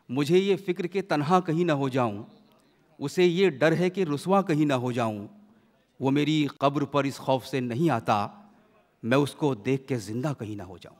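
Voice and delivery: measured mushaira verse delivery; declaimed Urdu verse; poetry recitation. Acted. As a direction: recite the couplets with weight, line by line. Host recites four verse lines.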